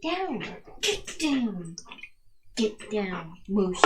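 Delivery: firm command. Real, not acted. Co-host ordering the jumping dog down, firm and loud. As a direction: tell the dog off firmly.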